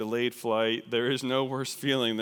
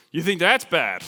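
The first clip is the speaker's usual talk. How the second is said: one-upping; 5 semitones higher, 9 dB louder than usual. Acted. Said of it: "one-uppers".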